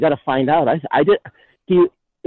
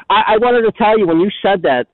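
breathless from jogging; while running. Real, not acted. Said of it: "I'm jogging right now".

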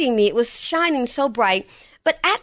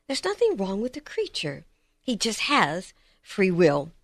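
kind, ushering voice; 3 semitones lower, 4 dB quieter than usual. Retold or imitated. Preacher voices the Lord gently speaking to him. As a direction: gently draw the listener close, a hint of a loving father. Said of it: "He said it with such a kind voice".

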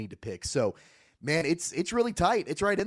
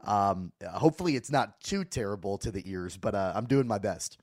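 lost voice, hoarse and squeaky. Real, not acted. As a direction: squeak through a hoarse, worn-out voice. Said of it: "I'm kinda squeaking my way through this".

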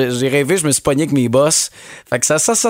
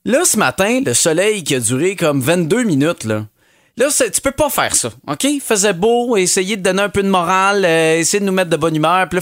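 lightly voiced fed-up weather lady, higher; a mildly higher, whiny complaint about the sun; frustrated Colette; 4 semitones higher than usual. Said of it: "C'est Colette Provencher, qu'on sent un peu de frustration".

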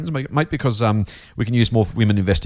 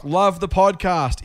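loud capitals; 9 semitones higher, much slower than usual. Shown as a demonstration. Host reading Kate's all-caps message, high and slow. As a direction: read it high and stretched out, slowly. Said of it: "that's why I said it loudly".

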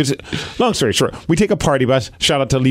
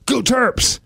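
cheering fan; 11 semitones higher than usual. Retold or imitated. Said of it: "So I look and go".

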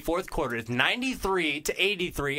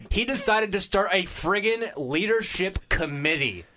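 higher, drawn-out exasperation; exasperated; 4 semitones higher, slower than usual. Real, not acted. Host ranting about the coach's committee, exasperated. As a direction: stretch it out in incredulous protest.

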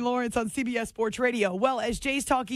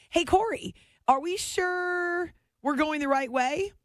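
a touch of worry, drawn out slowly; nervous, retold; 6 semitones higher, slower than usual. Passenger doubting the driver's route, mildly nervous. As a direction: lightly act the uneasy passenger. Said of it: "Freaks me out".

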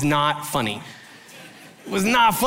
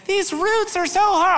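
much higher whiny imitation of the wife; a light falsetto wife complaining; mock wife complaining. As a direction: play the wife struggling with roots. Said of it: "my wife's like".

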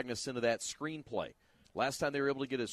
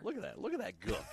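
Fletch impression; 10 semitones higher, faster than usual. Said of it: "You ever see Fletch?".

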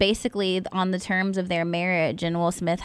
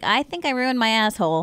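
mock blurted confession; 2 semitones higher than usual. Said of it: "over here is like".

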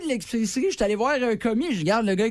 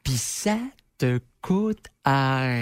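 smug jogger voice; 3 semitones lower, slower than usual. Retold or imitated. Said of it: "puis qui disent".

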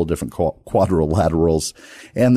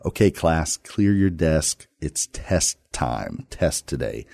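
teacher announcing a test; 3 dB quieter, slower than usual. Retold or imitated. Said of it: "I can hear her say".

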